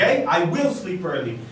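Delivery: firm, deliberate statement; inverted intonation, assertive. Shown as a demonstration. Teacher repeats for students, firm and certain. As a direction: say it as a sure thing. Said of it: "eu posso inverter a minha intenção, minha entonação".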